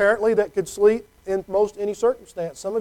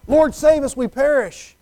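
frightened disciples begging; urgent plea in the storm; panicked plea; 5 semitones higher than usual. Acted. Disciples waking Jesus in storm.

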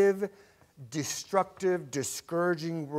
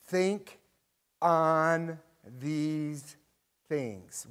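scripture reading. Acted. Reads scripture aloud.

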